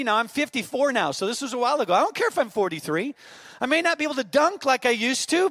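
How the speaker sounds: dad boasting to his son about his game; boastful dad. Retold or imitated. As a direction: puff up and boast, playfully. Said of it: "I immediately got totally offended".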